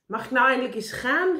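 high, loud protest; itching to be off; impatient cry. A narrator's reading. Karel interrupts meneer Pen's long instructions, impatient cry. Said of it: "riep Karel".

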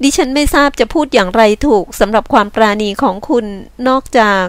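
lightly voiced grateful woman; a touch of humble gratitude. Woman thanks man for kindness, hesitantly grateful.

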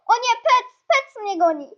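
loud, high alarmed cry; playful panic. Real, not acted. Player flees from Pec, playful panic. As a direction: cry out as if being chased. Being chased in game.

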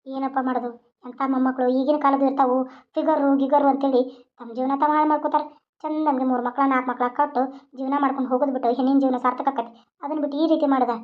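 lightly voiced old grandmother, scolding fondly; a hint of an old village granny advising.

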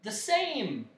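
unconvinced. A narrator's reading. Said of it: "without much conviction".

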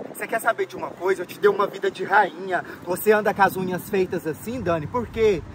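angry outburst. Acted. Husband rages at cheating wife.

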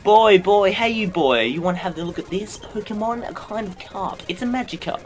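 high hammed-up huckster, loud at first; pushy salesman. Salesman offers the player a Magikarp, hammed-up hawker voice. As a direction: hail a mark, then pitch your dodgy wares.

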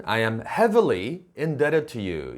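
"heavily" stressed and set apart in a deliberate sentence; emphatic "heavily", measured pace; emphasis on heavily. Shown as a demonstration. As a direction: lean on "heavily" to underline the debt. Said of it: "이렇게 강조해서 말하고 싶다면요".

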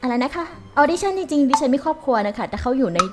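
lightly voiced old grandma, polite; a hint of a frail granny; shaky old voice. Plays grandma looking for work.

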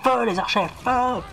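high excited commands; shouting orders. Pretend. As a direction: bark orders at the archers. Ordering archers to fire.

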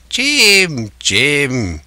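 castaway savouring a name, high then falling; quite pleased. A narrator's reading. Castaway hearing Jim's name, pleased. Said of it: "quite pleased apparently".

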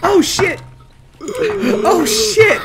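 high, loud frightened shouts; panicked yelling. Real, not acted. Streamer spooked by a game scare, yelling in panic. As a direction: yell in real panic at the scare.

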